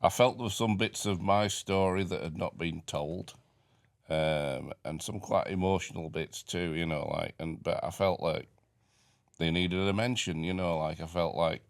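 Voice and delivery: slightly slurred mouth after extraction; talking funny after tooth out. Real, not acted. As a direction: speak round a fresh tooth gap. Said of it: "I'm sorry if I'm talking a bit funny".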